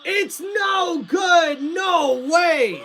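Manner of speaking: disbelieving shout. Acted. Missed kick repeated in disbelief.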